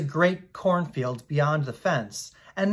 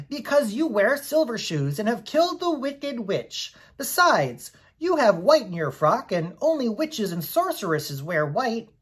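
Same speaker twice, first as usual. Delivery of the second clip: raised, earnest little Munchkin man; a kindly Munchkin explaining with wonder; awed Munchkin host insisting she's a sorceress; Boq, earnest Munchkin; 5 semitones higher than usual. Acted.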